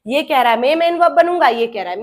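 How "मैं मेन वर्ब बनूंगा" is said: insistent claim. Acted. First verb competes to be main verb, insistent. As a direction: stake your claim firmly.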